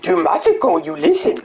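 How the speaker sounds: lightly voiced little green master; Yoda voice. Yoda warning a samurai about chaos. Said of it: "I could do Yoda".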